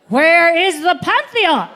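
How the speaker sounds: asked through laughter, slow; a slow question broken by laughter; laughing question. Retold or imitated. Comic laughing to her mother in Rome.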